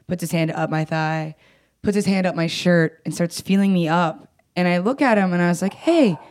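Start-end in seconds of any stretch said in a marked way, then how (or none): 5.7-6.2 retold objection. Objecting as ex feels her up.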